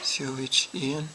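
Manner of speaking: repeating letters back one by one, slowly; spelling it out. Real, not acted. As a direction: read each letter back carefully. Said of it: "Can you spell it for me?".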